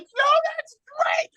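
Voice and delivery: very high-pitched, strained fan scream; retold excited scream. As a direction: re-enact screaming from the crowd in shock. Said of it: "I'm screaming at the top of my lungs".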